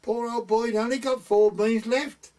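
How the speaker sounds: lightly imitated gossiping neighbour; woman's voice. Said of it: "She said".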